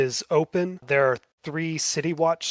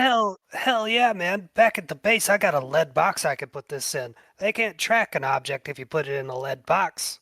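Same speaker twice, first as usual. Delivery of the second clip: Kickin' John excited; 3 semitones higher, 3 dB louder than usual. Acted. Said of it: "He goes".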